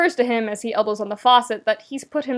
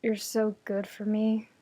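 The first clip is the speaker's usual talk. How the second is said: easy praise; 7 dB quieter than usual. Acted. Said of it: "the easy way Shiro says".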